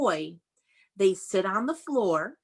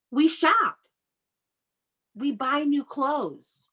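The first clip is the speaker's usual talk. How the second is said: slow read-aloud; 4 semitones higher, slower than usual. Shown as a demonstration. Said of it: "reading slowly to children".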